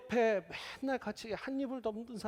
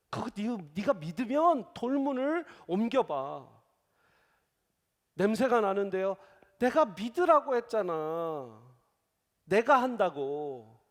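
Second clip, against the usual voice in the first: acted tomb dialogue; 5 dB louder, slower than usual. Jesus and Martha at tomb.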